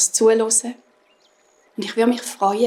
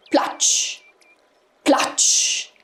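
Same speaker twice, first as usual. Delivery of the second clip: splash sound; 2 semitones higher than usual. A narrator's reading. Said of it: "Und es hat gemacht".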